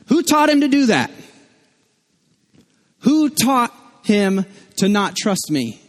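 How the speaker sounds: high-pitched, exasperated disbelief; baffled parent demanding an explanation; incredulous outburst. Acted. Dad baffled by his disobedient toddler, acted incredulity.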